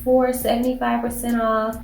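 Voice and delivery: hushed whisper about a bargain. Real, not acted. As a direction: lean in and whisper the deal. Sharing a sale price secretly.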